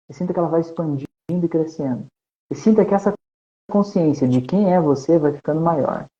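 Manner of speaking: guided meditation. Acted. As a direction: lead them gently into relaxation. Conduz meditação guiada ao vivo. (meditação guiada, voz calma)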